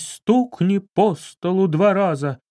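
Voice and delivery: slow, solemn command to the spirit; insistent medium. Acted. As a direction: demand a sign, slowly. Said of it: "не сдавалась баронесса". (настойчиво и медленно)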